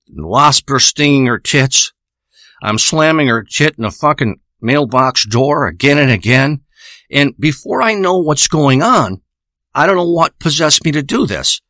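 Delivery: sore, rough throat from smoking; a hoarse voice worn by weed smoke. Real, not acted. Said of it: "Slightly a sore throat".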